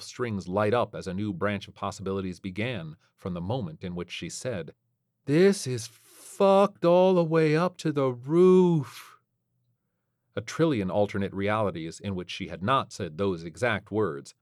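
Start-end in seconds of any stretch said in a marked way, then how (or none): 5.2-9.1 higher, louder Ariana; wry space pilot; brisk pilot voice. Acted.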